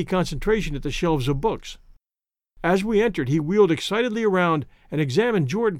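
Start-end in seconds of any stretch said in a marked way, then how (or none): none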